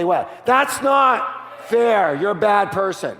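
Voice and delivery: high, drawn-out mock scold; teacher scolding. Teacher scolding a schoolchild, high and mock-shocked. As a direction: play the teacher shaming a child. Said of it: "they would say".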